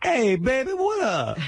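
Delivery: high-pitched caricature of Black American speech; exaggerated, squeaked-up put-on Black American accent; mock Black American accent. Shown as a demonstration. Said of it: "Can you do black?".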